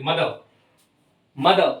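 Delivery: मदर with the final r barely there; मदर trailing off on "duh", no clear r; very quick r. Shown as a demonstration. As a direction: say मदर ending in a schwa, r swallowed. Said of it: "इस तरह से बोलना है कि बहुत जल्दी से".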